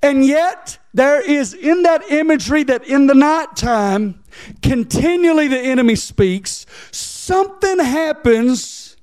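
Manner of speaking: high, stretched-out preacher cadence; impassioned preaching. Real, not acted. Preacher asking the church how faith gets there, impassioned preaching. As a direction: lift the voice high and press each phrase home.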